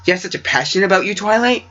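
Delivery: quick rising line. Shown as a demonstration. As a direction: hurry through it, lift the end. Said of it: "does that sound, does that not sound kinda weird".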